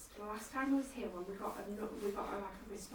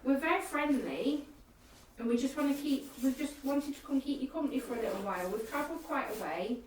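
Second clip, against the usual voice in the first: friendly spirit call; 3 semitones higher than usual. Real, not acted. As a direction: win the spirits over gently. Addressing spirits on ghost hunt.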